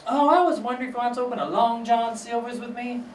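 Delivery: high put-on neighbor voice; imitated neighbor. Neighbor pitching a restaurant venture, high put-on voice. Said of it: "then she's like".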